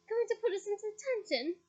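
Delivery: taunting. Acted. Fred taunting Ron.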